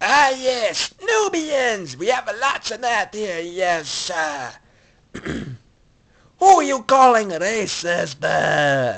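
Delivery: put-on alien character voice. Doing a Star Wars impression: Watto voice. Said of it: "Here's, um, Watto".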